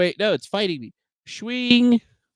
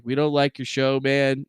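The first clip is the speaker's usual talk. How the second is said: a hint of lower, dismissive company voice; lightly voiced snobby platform; 5 semitones lower than usual. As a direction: sneer as the platform that doesn't care. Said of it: "They're like".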